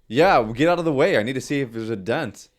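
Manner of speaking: retold angry demand. Driver retells confronting the dad over the dent, angry demand. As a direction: re-enact ordering someone aside, forcefully. Acted quarrel over truck door.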